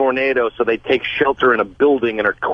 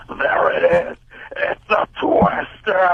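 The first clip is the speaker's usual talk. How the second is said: mock shout; 5 semitones higher, slower than usual.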